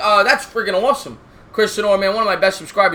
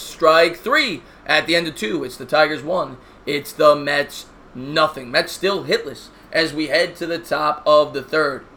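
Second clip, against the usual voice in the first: play-by-play announcer; 2 semitones lower, slower than usual. Acted. Live play-by-play call.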